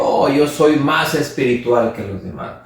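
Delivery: a puffed-up churchgoer bragging about his learning; proud boaster. Retold or imitated. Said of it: "se comparó con los otros diciendo".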